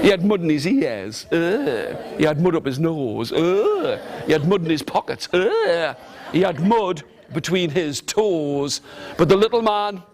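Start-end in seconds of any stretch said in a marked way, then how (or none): 1.3-2.0 disgusted groan. Acted. Mud in his ears. 3.3-4.0 disgusted groan. Acted. Mud up his nose. 5.3-6.0 disgusted groan. Acted. Mud in his pockets.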